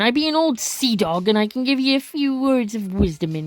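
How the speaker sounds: lightly voiced old sea dog; a hint of a salty pirate's brogue; hoarse old pirate. Old sailor begs a lad for rum, lightly hoarse pirate. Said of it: "the sailor says hoarsely".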